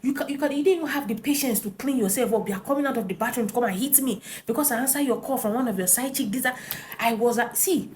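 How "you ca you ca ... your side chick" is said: retold insults. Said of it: "insulting him".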